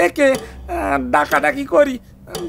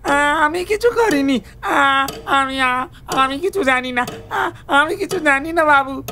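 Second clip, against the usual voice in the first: stammering, a touch of crying; frightened pleading. Acted. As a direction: plead your innocence, voice catching. Servant frightened under questioning.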